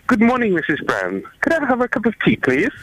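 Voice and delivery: careful received-pronunciation imitation; amateur southern English put-on; attempted southern accent. Shown as a demonstration. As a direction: try southern English, drifting American. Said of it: "You do a s-, a southern accent".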